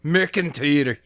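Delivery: bad Scottish accent on McIntyre; mock Scottish accent, rolled r; terrible Scottish accent. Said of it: "my terrible Scottish accent".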